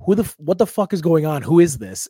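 retold indignant demand; rude. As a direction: demand answers, a bit heated. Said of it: "I get kinda rude".

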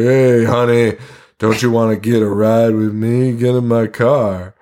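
lightly voiced sleazy pickup line; sleazy guy. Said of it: "the biggest piece of shit".

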